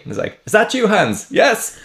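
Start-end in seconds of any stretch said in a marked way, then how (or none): 0.4-1.3 high, hopeful call back; comic high-pitched reply; answering soldier. Acted. Irish soldier answers in the joke. 1.3-1.8 very high, eager questioning reply; comic high squeak of a reply; answering soldier. Acted. German falls for it again.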